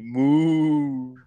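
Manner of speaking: put-on high, loud little kid "Moo"; imitating a toddler. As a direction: play the toddler mooing at a book. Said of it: "He's like".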